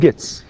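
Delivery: "gets" ending in a crisp ts; voiceless final S. Shown as a demonstration. Teacher showing how we say gets, voiceless ending. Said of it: "طيب احنا نقول".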